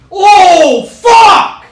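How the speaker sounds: high screaming curse; furious shout. Real, not acted. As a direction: yell it out in real rage. Gets killed in game.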